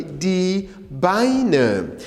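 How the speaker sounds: drawn-out, careful "Die Beine"; teacher stretching the German vowels; model pronunciation. Shown as a demonstration. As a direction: say it for learners to repeat. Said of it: "Say it after me".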